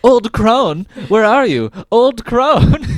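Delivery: high, loud sing-song calling; calling for the witch. Retold or imitated. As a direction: call out for her in a high voice. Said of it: "he's like".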